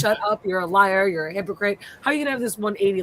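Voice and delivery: retold losing it. Viewer telling Tabitha off as a hypocrite, exasperated. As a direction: replay your outburst with mild heat, hurrying at the end. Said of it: "I was losing my shit".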